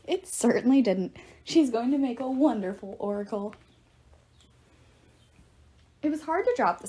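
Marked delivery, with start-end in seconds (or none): 0.1-3.5 mildly upbeat, emphatic agreement; cheerful. A narrator's reading. Apollo praises the new oracle to Percy, cheerful. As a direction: brush off the gloom with good cheer. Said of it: "said Apollo cheerfully".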